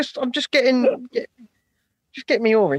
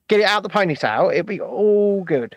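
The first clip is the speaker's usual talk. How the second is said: Cockney voice. Shown as a demonstration. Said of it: "all you gotta do is get it out the ponytail".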